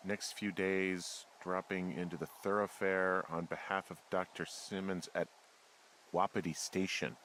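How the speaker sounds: slow, halting read of a memo; reading aloud. Acted. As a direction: read it out slowly, piece by piece.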